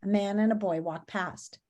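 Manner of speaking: gentle storybook read-aloud voice; reading to children. Acted. Teacher reads picture book aloud.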